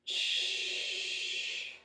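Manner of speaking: long hissed breath out as you hold; exhale hiss. Shown as a demonstration. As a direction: push the air out on a steady shh. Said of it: "coach cueing breath on the lift".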